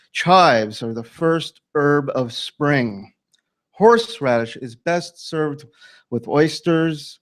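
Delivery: measured poem recital with pauses between lines; poet's spaced-out, declamatory delivery; poetry reading. Acted. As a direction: read each line out deliberately, letting it land. Poet reads his poem aloud.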